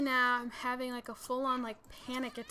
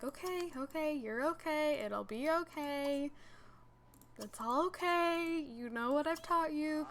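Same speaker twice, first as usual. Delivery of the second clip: retold reassurance; 4 semitones higher than usual. Dad reassuring her once he understands.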